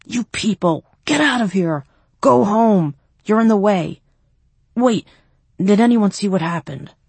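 loud commanding shout. A narrator's reading. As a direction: yell at the crowd to clear off. Shooing crowd from attack scene.

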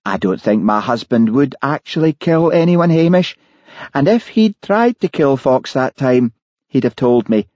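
voicing the wife on the recording; Mary's voice. A narrator's reading. Mary voiced in narration.

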